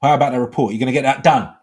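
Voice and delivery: loud, pressing boss voice; demanding manager. Acted. Manager chasing a worker for the report, loud and demanding. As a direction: play the boss demanding results. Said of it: "the manager comes".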